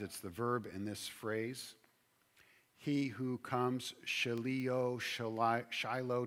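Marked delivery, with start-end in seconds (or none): 2.8-3.9 slow, with weight on comes; stress on comes. Shown as a demonstration. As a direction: lean on the word comes. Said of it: "Coming is the word I want to emphasize".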